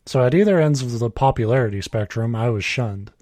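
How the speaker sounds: even, measured reading voice; story read aloud. A narrator's reading. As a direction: read the written story out plainly. Reads a written story aloud.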